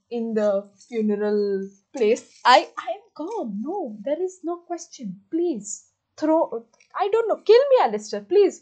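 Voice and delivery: loud, gushing mock despair; swooning. Real, not acted. Gushing to viewers about Alistair, loud mock swooning. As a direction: overcome with fangirl rapture. Mock dying over fictional man.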